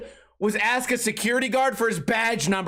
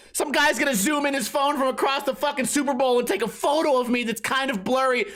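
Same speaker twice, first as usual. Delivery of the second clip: normal talking voice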